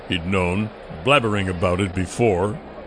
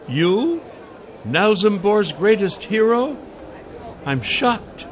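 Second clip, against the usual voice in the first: higher, teasing woman's voice; Celine voice; 4 semitones higher than usual. A narrator's reading. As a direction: play her mock shock higher.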